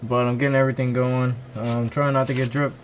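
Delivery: cramped, crouched under a car; hunched over. Real, not acted. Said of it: "sorry, I'm still a little crouched down here".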